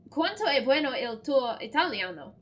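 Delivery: unsure attempt at Italian; halting foreign reading. Real, not acted. Player attempting Italian she barely knows, unsure foreign reading. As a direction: try the Italian with an apologetic, non-native accent. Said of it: "the mispronunciation of this".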